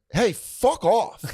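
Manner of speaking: high, drawn-out mock outburst; retold angry dismissal. Retold snap at drunk heckler.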